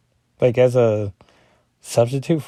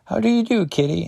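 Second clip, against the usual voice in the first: higher, courtly greeting; hammed-up gentleman greeting; lightly voiced Xavier; 5 semitones higher, faster than usual. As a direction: charm the girl politely. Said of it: "Xavier's like".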